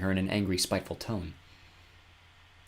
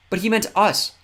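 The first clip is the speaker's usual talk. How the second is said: pointing out; 12 semitones higher, 8 dB louder than usual. Acted. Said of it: "Kira pointed out".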